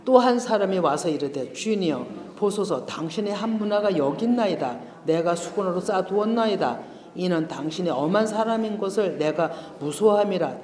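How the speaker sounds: measured, solemn Bible reading; scripture reading. Acted. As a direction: read the verses out to the congregation. Reads scripture aloud. (성경 봉독하듯 엄숙하게 읽기)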